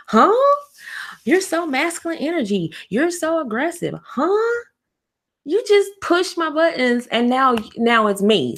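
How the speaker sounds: baffled outrage, voice shooting up; stunned disbelief. Retold or imitated. Partner shocked at being called aggressive, high incredulous voice. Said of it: "Now you're like".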